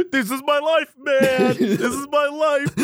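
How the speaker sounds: hammed-up lament of a fed-up guy; mock despair. Acting out Ethan's despair.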